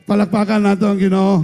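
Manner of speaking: loud call for applause. Real, not acted. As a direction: rouse the congregation to clap. Calling for applause.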